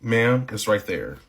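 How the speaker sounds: drawn-out, half speed "Ma'am, it's right there"; slow pointed reply. Retold or imitated. Cashier answering suspicious deli manager, slow and pointed. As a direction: spell it out for her, slowly.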